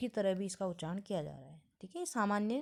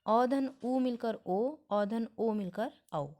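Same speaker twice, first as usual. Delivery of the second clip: slow working through; slower than usual. Shown as a demonstration. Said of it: "देखिए".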